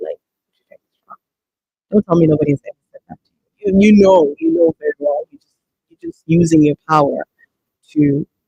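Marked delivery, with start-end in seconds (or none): 0.2-1.2 quiet whisper under the breath. Showing how someone might quietly tell an employer: whispering under the breath. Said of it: "At least whisper it under the breath".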